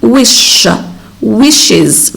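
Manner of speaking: "wish" with a stressed sh, then "wishes" as "wish-iz"; sh then iz ending. Shown as a demonstration. Teacher introducing the word, "wishes" ending in iz. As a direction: separate "wish" from "wishes" to show the iz. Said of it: "we say wishes".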